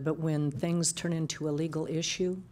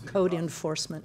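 louder, clearer repeat of "Code enforcement". Real, not acted.

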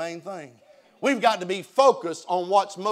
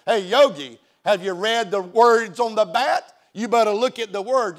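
taunting; 3 semitones higher, 6 dB louder than usual. Retold or imitated. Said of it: "teasing him and taunting him".

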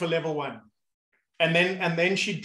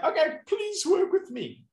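put-on high, strained voice of a kid with a cramp; a kid pleading with his own leg; 13 semitones higher than usual. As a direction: beg the cramping calf to work with you. Kid in pool pleading, cramping calf.

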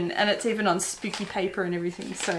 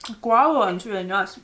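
chewing while talking; words round a bite of candy; mouth full. Real, not acted. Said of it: "talking with my mouth full".

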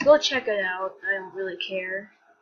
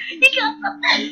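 much higher and louder yell; excited shout; 9 dB louder than usual. Real, not acted. Vlogger yelling in delight at a long-necked character. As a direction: scream it out in delight.

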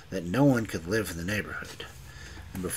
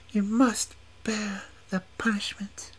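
menacing whispered verdict; whispered sentence. A narrator's reading. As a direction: whisper his doom. Witch pronounces sentence.

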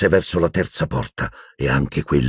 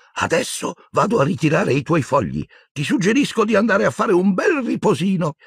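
put-on gentle old wizard. A narrator's reading. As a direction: soothe him gently like a grandfather. Old wizard speaking kindly. (vecchio mago che parla con gentilezza)

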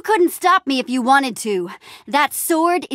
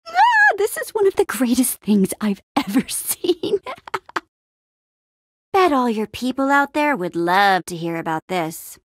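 laughing delight. Acted. Mocking the greatest thing ever seen, laughing. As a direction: crack up as you say it. Gloating over a funny discovery.

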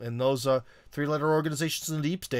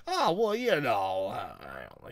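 humble brag; 3 semitones lower, much slower than usual. Acted. Host acting out someone who humble brags, falsely modest. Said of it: "humble brags, you know, where they'll be like".

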